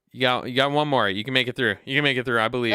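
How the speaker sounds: rally a flagging teammate with energy; encouraging pep talk. Real, not acted.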